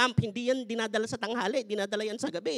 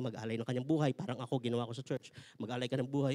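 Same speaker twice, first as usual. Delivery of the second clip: lower, softer, calm divine voice; God speaking; 8 semitones lower, 5 dB quieter than usual. Acted. God answering the complaining husband, low, soft and firm. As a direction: answer like a patient Father.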